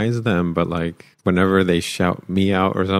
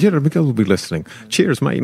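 a light, higher mock Scottish accent; 6 semitones higher than usual. Guest retells Hedge's cheeky sign-off in a mock Scottish accent. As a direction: toss off a quick fake Scottish accent. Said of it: "what is a Scottish accent?".

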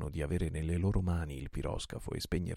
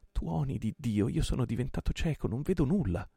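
higher, louder, choked-up anguish; overwhelmed; 6 semitones higher, 4 dB louder than usual. A narrator's reading. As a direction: cry out, blinded by emotion. Overwhelmed, cannot see.

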